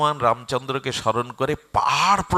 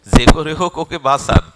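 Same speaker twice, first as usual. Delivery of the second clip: very loud plea in usual pitch; urgent appeal; 11 dB louder than usual. Acted. Hanuman asks to save Arjun, loud appeal. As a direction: beg forcefully for a life.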